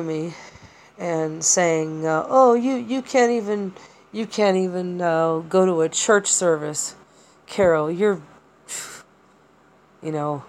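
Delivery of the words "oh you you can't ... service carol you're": mildly mock an entitled man's put-down; a hint of a nasty, entitled bully; evil entitled voice. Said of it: "sounded like a really evil, entitled male voice".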